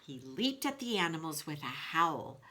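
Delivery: lively storybook read-aloud to the class; reading to children. A narrator's reading. Teacher reading Wolf to her class in a storybook voice. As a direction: tell the story to the kids with expression.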